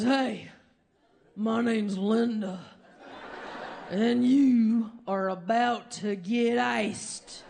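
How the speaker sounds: a hint of a cocky heckler, slowing down on the threat; lightly voiced Linda. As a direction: play it as a tough lady calling you out, drawn out at the end. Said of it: "and she goes".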